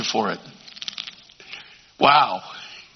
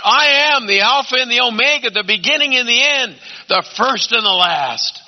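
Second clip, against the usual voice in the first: higher, ringing declaration of divine title; glorified Jesus; 6 semitones higher than usual. Acted. Preacher voicing Jesus revealed in glory, majestic declaration. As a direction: proclaim it in glory, letting it out. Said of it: "he's letting it out".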